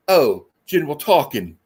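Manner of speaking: slow imitation of a British accent; slow, deliberate British delivery. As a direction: put on a straight British accent. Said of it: "like a straight on British accent".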